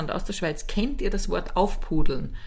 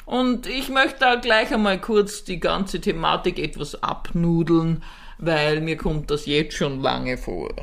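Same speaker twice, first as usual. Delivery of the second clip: mock formal announcer; 3 semitones lower than usual. Mock conference host speech.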